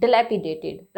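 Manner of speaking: dilapidated with a "duh" first syllable; correct pronunciation. Shown as a demonstration. Teacher repeating for learners, dilapidated opened with "duh". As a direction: model dilapidated, first vowel reduced to "uh". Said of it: "अ की यू एच की sound देगा".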